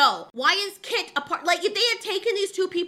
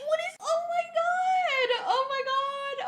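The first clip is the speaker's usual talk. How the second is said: exasperated groan; 11 semitones higher, 4 dB quieter than usual. Real, not acted. Outraged reaction to the show.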